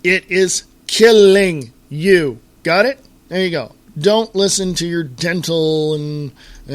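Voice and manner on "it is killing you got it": direct and blunt. Shown as a demonstration. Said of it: "any more poignant or direct".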